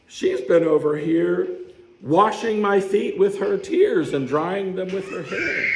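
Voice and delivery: a touch of laughing disbelief at the end; Jesus rebuking. Retold or imitated. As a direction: press Simon with mounting indignation. Jesus rebuking Simon, voiced.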